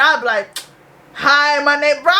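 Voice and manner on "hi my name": mildly irritated mock greeting, held on one note; retold fed-up employee greeting. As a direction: recite the greeting with a touch of annoyance. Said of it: "I used to be so irritated".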